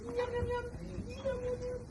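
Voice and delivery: squeaky feeding voice; high singsong yum. Pretend. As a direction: sing it up high for a toddler. Feeding toy animals.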